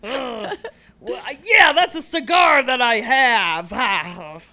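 big, slow, loud boss voice; kid playing movie producer. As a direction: puff up like a toddler mogul. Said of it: "movie producer role".

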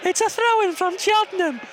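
high commentator voice; lightly voiced football commentator; commentary impression. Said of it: "We should do commentary impressions".

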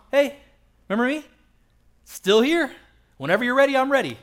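high, loud, half-joking call; calling out to God. Retold or imitated. Believer in prison shouting up a hopeful, loud reminder. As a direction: wave your arms at a God who forgot you.

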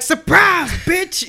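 high, playful reveal; playful surprise. Pretend. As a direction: squeal it like a prank reveal. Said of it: "And I'd be like".

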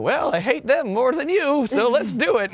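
a hint of a grumpy old lady. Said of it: "I like how you have an old lady voice".

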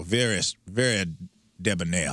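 put-on low, genteel Southern accent; high-born Southern accent. Showing co-hosts what accent is meant, high-born Southern. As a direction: debonair upper-crust Southern. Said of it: "the high-born Southern accent".

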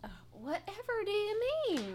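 coy high Western belle voice; old-timey Western accent. Acted. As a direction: feign innocence in a Western accent. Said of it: "speak in old-timey Western accents".

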